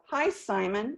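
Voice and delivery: "Hi, Simon." with the pitch dropping at the end; tone goes down. Shown as a demonstration. Sales coach demoing a cold call greeting, falling tone. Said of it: "My tone goes down".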